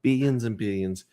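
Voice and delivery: "Billions and billions" with the first as bee-yuns; imitated pronunciation. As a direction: mimic his "Billions and billions", the L softened away. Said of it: "he says billions".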